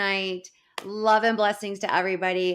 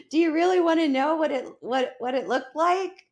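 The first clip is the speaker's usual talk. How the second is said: higher-pitched, amused retelling of a friend; imitated amusement; 9 semitones higher than usual. Imitating Amber on the phone, imitated amusement. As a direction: ask it as if just done laughing. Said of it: "and she's laughing".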